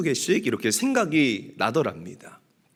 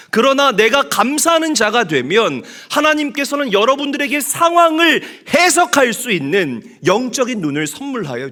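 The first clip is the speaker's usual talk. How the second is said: higher, louder, driving sermon climax; preaching at full force; 6 semitones higher, 6 dB louder than usual. Acted. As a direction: preach it to the congregation with fire. (성도들에게 힘차게 외치는 설교)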